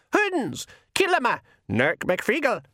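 high, yelled Feegle battle cry; rally the clan into the charge; war cry. Acted. The Feegle charge out after Verence, yelled war cry.

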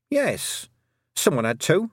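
high-pitched, indignant defence; hot retort. A narrator's reading. Girl defending burying the cat, hotly. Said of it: "said Tiffany hotly".

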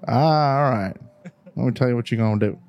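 lightly imitated coworker accent; a hint of a coworker's mimicked accent; Hank's accent. Coworker advising a caller about a car, lightly imitated accent. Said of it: "I'm making his accent".

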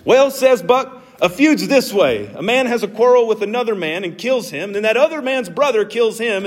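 lightly voiced Southern accent for a Huckleberry Finn quote. Preacher quoting Buck from Huckleberry Finn, light Southern accent. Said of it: "you gotta say it in a Southern accent".

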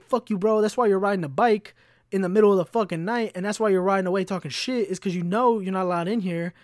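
shouting after a guy riding away; retold yell at biker. Yelling at dude on bike.

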